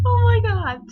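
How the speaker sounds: very high and loud squeal; excited squeal. Real, not acted. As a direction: shriek with giddy delight. Overwhelmed by crush.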